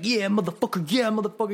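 loud, high taunts in imitation; hammed-up vengeful glee; mock gloating. Coworker gloating over twitching bug.

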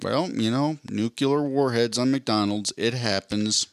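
slow nonplussed lawman drawl; deadpan southern drawl. Retold or imitated. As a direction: shrug it off in a flat drawl. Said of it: "just be like".

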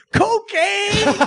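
high, sustained mock scream into a camera; drawn-out high imitation yell; imitated yelling. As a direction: holler it way up high, imitating a wild outburst. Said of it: "il crie dans la caméra".

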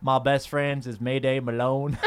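slow put-on Southern character; Cliff. Cliff telling his boring anecdotes, slow Southern character. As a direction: draw it out like a dull Southern postman. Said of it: "I'm Cliff".

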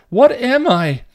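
loud, very high cry; desperate demand. A narrator's reading. Dawn questions the mental patient, desperately demanding. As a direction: pitch shooting up, pleading to know.

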